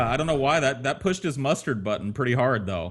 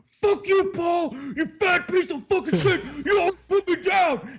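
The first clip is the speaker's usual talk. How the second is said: higher whiny imitation of a hurt friend; imitating friend. Teller imitates friend Ben snapping back, high whiny voice. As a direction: whine it back like a wounded buddy. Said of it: "he turns around and goes".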